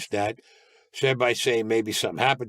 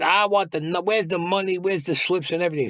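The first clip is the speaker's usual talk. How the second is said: retold demand; 6 semitones higher than usual. Boss demands money from detectives.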